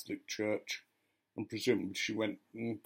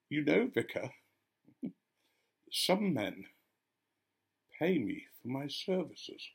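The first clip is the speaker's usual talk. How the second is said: mock-sweet woman, voice raised a little; sweetly smiling; 4 semitones higher than usual. Woman coyly confiding in the vicar, sweetly. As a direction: say it sweetly, through a smile. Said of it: "looking at me and smiling sweetly".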